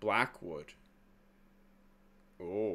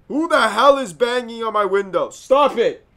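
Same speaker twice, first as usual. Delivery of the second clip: loud, high demand to stop; raised, jumpy protest; alarmed yelling; 7 semitones higher, 9 dB louder than usual. Real, not acted. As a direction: shout at whoever is banging outside. Yelling at banging on screen.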